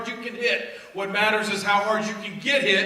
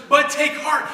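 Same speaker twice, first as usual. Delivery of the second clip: "but take heart" higher and louder with gusto; enthusiastic; 7 semitones higher, 7 dB louder, slower than usual. Shown as a demonstration. Jesus encouraging the crowd, loud and enthusiastic. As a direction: hit "but take heart" with energy and charisma. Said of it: "he said it with enthusiasm".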